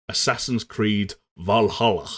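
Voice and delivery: slow, hammed-up Scandinavian accent; horrible Scandinavian accent. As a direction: drag out Valhalla in a bad Scandinavian accent. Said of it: "my horrible Scandinavian accent".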